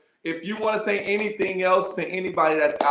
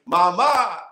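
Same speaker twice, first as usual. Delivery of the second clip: loud call to Mama; loud playful call; 2 semitones higher, 7 dB louder than usual. Real, not acted. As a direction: shout a greeting across the room. Host calling out to guest's mom.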